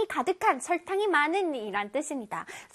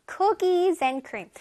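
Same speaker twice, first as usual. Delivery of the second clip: "Cookies and cream" with COO hit high; stress on COO; 3 semitones higher, much slower than usual. Shown as a demonstration. Teacher shows pupils the stressed syllable, stress on COO. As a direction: punch the first syllable of "Cookies". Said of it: "첫 번째 쿠에 강세가 들어가요".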